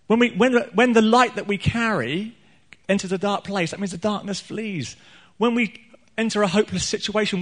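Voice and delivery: high-pitched, rousing sermon delivery; lifted, emphatic pulpit voice; impassioned preaching. Real, not acted. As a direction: preach it with rising conviction.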